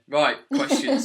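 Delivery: high, loud burst; excited. Real, not acted. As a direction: launch the segment with energy. Launching into listener questions.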